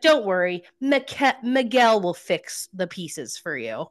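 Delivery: nasty retold jab, slowed at the end; mock-nasty, drawn-out dig; real nasty. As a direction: imitate a spiteful parting shot. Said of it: "Real nasty".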